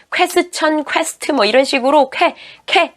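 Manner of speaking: "퀘스천, 퀘스트" with a merged "kwe"; Koreanized QU sound. Shown as a demonstration. Teacher imitates learners' mistake, "퀘스천" with Korean "kwe". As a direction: say "퀘스천" in flat Korean syllables, "kwe-seu-cheon". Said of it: "이렇게 발음을 하셨는데".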